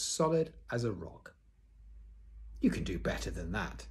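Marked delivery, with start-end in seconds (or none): 2.6-3.9 encouraging Pippi. Acted. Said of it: "to encourage him".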